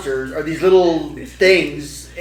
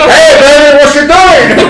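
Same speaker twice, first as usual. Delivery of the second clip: loud, high leering tough-guy voice; sleazy catcall; 10 semitones higher, 13 dB louder, slower than usual. Retold or imitated. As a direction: ham up a creepy pickup line. Mocking dad's Scarface-style catcalls.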